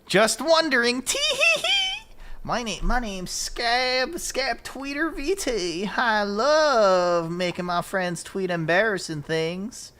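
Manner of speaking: high, loud mock Canadian accent with drawn-out words; hammed-up Canadian accent, squealed and stretched out; Scab's Canadian accent. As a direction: tease with a slow, high-pitched Canadian accent. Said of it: "that's your Canadian accent, Scab".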